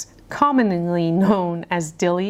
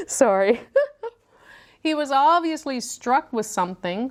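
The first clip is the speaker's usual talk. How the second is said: laughing through it; 7 semitones higher than usual. Real, not acted.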